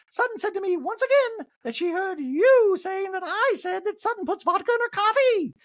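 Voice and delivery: high mock reality-star voice; squeaky gossip impression; high put-on housewife voice. Recapper imitating a housewife, high mock voice.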